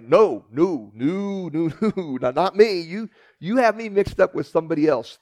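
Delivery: flustered, loud stammering no, no, no; panicked denial. Retold or imitated. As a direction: deny it in a nervous rush.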